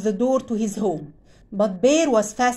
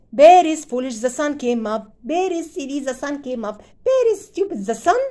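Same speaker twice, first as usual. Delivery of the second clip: teasing; 2 semitones higher than usual. Acted. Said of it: "began to tease Bear".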